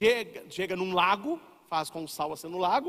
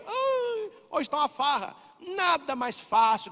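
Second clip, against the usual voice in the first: mock relief; 8 semitones higher, slower than usual. Voicing someone relieved, easy faith.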